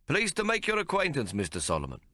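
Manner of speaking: bright welcome from a small tailor; little tailor's voice. A narrator's reading. Tailor greeting a giant customer, eager and polite.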